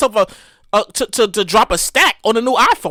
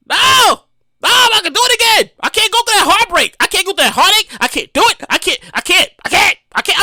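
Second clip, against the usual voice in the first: dramatic refusal; 7 semitones higher than usual. Real, not acted. Dramatic refusal to buy again.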